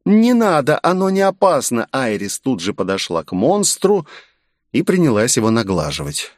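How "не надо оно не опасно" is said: put-on pleading girl. A narrator's reading. Girl stopping the narrator from killing it, high pleading voice. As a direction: beg them to leave it alone.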